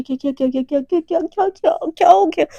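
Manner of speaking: frightened stammer climbing to a burst; panicked stammer. Acted. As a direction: stutter the question as fear builds. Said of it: "एकदम घबराने लगते हैं".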